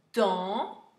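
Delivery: "dentifrice" in isolated syllables with long pauses. Shown as a demonstration. Teacher repeats for pupils writing, syllable by syllable. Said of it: "Je répète".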